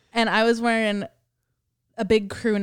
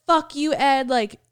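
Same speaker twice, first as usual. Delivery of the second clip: higher-pitched mock outrage; retold scolding; 5 semitones higher, 3 dB louder than usual. Girl's friend at the front door to Ed, imitated outrage. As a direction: play an indignant friend telling him off. Angry friend confronts Ed in dream.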